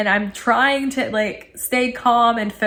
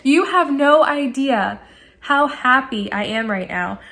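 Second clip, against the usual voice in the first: slow, higher-pitched gushing; excited; 4 semitones higher, slower than usual. Retold or imitated. Customer gushing to the tech who will help, excited. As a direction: gush it slowly, leaning on each word. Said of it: "I was just so excited".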